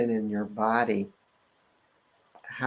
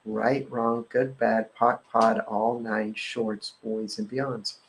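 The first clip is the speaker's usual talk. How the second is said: rote clearing formula; slower than usual. Acted. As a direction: recite the formula by heart, steady and even. Recites the clearing statement.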